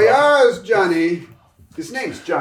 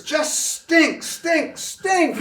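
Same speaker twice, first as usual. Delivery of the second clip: rising contempt, each stink higher; building disgust; 5 semitones higher, much slower than usual. Acted. Showman taunting his failed act, climbing disgust. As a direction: spit the word over and over, building.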